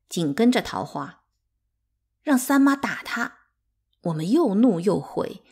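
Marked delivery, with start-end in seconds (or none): 2.2-3.4 put-on high, loud childish outburst; angry demand. A narrator's reading. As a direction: call for punishment in an indignant high voice. Angry child demands punishment for tormentor.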